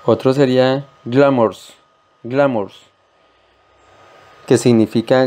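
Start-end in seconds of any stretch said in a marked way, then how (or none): 1.1-2.8 glamours with the weight on gla; stress on first syllable. Shown as a demonstration. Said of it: "acentuación o fuerza en la primera sílaba". (acento en gla de glamours)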